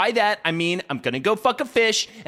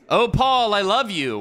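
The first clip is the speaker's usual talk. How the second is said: overacted line reading; 5 semitones higher, 3 dB louder, slower than usual. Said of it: "let me do my lines".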